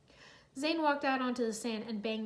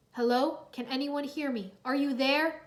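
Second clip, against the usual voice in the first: calling out; 4 dB louder than usual. Acted. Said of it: "Zane cried".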